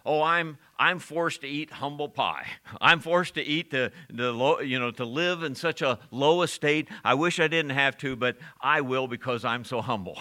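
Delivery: mock self-pity. Mocking false humility in acted quote.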